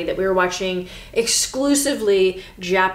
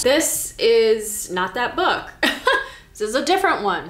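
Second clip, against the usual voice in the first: laughing; 2 semitones higher than usual. Real, not acted. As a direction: chuckle through the correction. Laughs at mixup.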